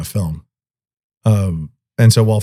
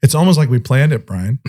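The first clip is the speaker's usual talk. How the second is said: facetious mock amazement, pitched up at first; 3 semitones higher than usual. Real, not acted. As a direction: say it as a knowing joke. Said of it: "I say that so facetiously".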